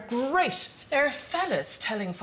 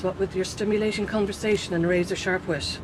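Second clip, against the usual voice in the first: sarcastic praise. Acted. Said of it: "No, not really".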